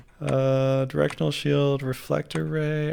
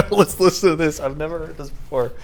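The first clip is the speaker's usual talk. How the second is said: voice changer; 2 semitones higher, 4 dB louder than usual. Real, not acted. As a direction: talk through a voice changer. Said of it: "with a voice changer on".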